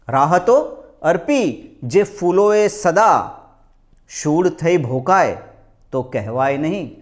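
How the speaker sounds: slow declaimed couplets, each phrase set apart; lilting Gujarati mushaira delivery; ghazal recitation. Acted. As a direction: lift the key word, then let the refrain fall.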